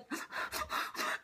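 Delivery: imitated voiceless, heaving sobs; mock sobbing. Retelling crying to mom, mock sobs. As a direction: act out quiet, breath-only crying.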